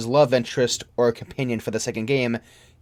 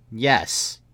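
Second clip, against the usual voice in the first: lower, softer, slow admission; quiet somber answer; 3 semitones lower, 4 dB quieter, much slower than usual. Acted. Narrator answering his friend's question, low, soft and slow. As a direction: let the regret weigh on each word.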